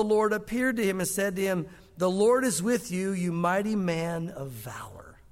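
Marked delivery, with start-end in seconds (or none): 2.0-5.2 slow, fading to a whisper; solemn slow greeting. Acted. Angel greeting hiding Gideon, slow and hushed. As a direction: hush the second half with reverence.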